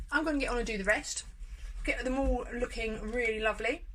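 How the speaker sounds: talking while still chewing; words muffled by food; mouth full. Real, not acted. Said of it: "Sorry, I'm finishing with my mouth full".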